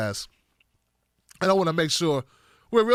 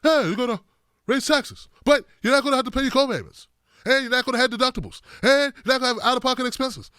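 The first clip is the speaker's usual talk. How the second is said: blunt Bernie quote; 4 semitones higher than usual. Retold or imitated. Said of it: "But Bernie just says it".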